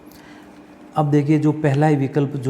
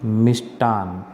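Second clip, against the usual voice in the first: slow answer; 3 semitones lower, slower than usual. Shown as a demonstration. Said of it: "तो क्या बनेगा".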